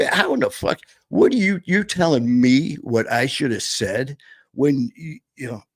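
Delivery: high, exasperated mock outburst; indignant retort. Speaker snapping back at people who second-guess him, in a high exasperated outburst.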